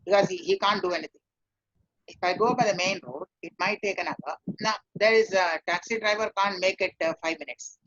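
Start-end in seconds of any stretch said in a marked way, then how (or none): 2.1-4.4 matter-of-fact answer, no emotion; purely professional. Shown as a demonstration. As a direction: state it plainly like a driver. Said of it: "no emotion".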